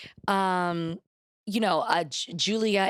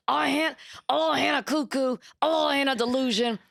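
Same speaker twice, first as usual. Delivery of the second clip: put-on high, sweet cooing little girl; 7 semitones higher than usual. Quoting a TikTok girl offered snacks, high childlike coo. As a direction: coo it like a small child getting treats. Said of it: "that's kind of what I want from my housewife".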